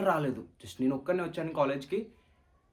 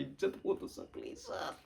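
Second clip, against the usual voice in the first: breathless whisper, much softer; whispered plea; 6 semitones higher, 8 dB quieter than usual. Acted. Student whispers to the sir not to shame him in front of everyone. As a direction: whisper it so nobody hears.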